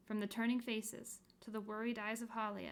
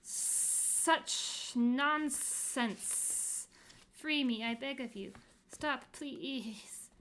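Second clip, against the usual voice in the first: higher, louder squeal like a hurt dog; 4 semitones higher, 6 dB louder, much slower than usual. Acted. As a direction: squeal like a dog with a broken leg. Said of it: "squealed a fifth voice".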